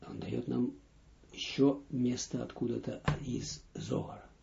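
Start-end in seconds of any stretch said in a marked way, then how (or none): none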